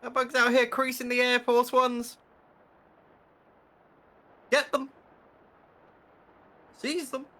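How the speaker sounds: high, loud royal commands; roaring tyrant king. Pretend. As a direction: order the guards like a mad king. Commanding guards against bug.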